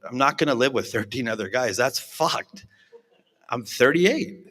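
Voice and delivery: getting worked up, insisting you're fine; indignant protest. Retold or imitated. To treatment center staff, defiant, rising indignant protest.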